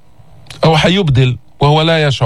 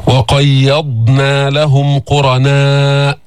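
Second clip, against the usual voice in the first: very slow chanted verse; careful tajweed reading; Quran recitation; much slower than usual. Acted. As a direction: recite slowly and evenly.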